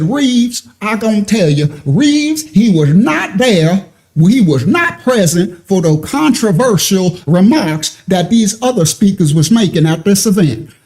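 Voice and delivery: lightly hammed-up Southern drawl, dragged out; mock country twang. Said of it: "my country brothers and sisters with a twang".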